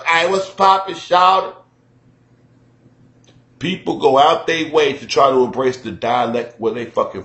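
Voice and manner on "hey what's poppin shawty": higher Southern greeting; lightly voiced Southern greeting; mock Southern greeting. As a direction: toss off a Southern hello. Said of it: "go out they way to sound".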